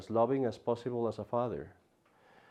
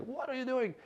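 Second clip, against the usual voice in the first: high squeaky mock outrage, softer; angry injured man; 13 semitones higher, 7 dB quieter than usual. Teacher voices the pushed man complaining, mock high squeak. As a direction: squeak it like a hurt, annoyed guy. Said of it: "he says, like".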